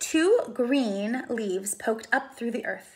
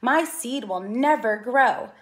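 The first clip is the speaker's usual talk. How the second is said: upset cry; 3 dB louder than usual. Acted. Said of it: "cried Mortimer".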